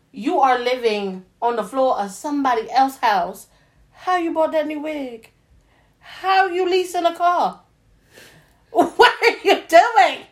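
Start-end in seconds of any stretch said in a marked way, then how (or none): 3.9-10.3 mock callout. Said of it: "Like, girl".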